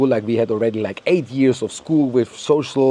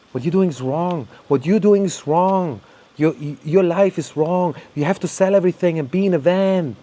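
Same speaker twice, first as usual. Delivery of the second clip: mock preaching; 4 semitones higher than usual. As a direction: imitate a preachy know-it-all scolding everyone. Mocking preachy van-life believers.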